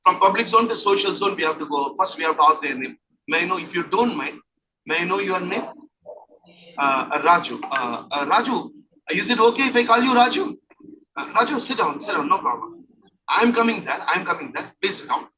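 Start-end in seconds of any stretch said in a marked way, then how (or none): 3.3-15.3 gentle role-play approach. Shown as a demonstration. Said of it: "So like this".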